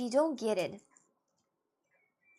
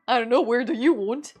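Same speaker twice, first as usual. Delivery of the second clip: louder flat deflection; lightly voiced other person; mock friend deflecting; 10 dB louder than usual. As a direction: throw the question right back. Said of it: "the person's like".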